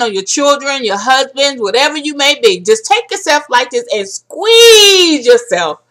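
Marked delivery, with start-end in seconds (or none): 2.6-5.8 slow, choked with tears, voice catching; holding back real tears while asking for the hug; teary-eyed. Real, not acted. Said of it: "I am teary-eyed".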